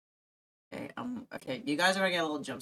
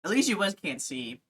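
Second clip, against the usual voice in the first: chewing while talking; mouth full; 3 semitones lower than usual. Real, not acted. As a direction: talk through a mouthful. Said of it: "the food in my mouth".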